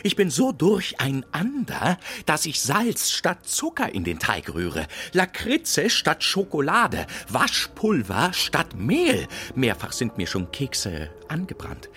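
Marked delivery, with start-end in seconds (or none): 0.0-9.3 höher und lauter, sich hineinsteigernd; aufgeregtes Klagen. Acted. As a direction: sich in Aufregung reden. (jammert über verdorbene Kekse, höher und lauter)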